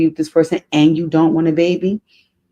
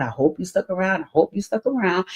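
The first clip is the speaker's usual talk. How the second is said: repeated much softer, fading away; soft echo; 3 semitones higher, 6 dB quieter than usual. Real, not acted. Host teasingly echoing to viewers, softer each time. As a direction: drop it to a teasing hush.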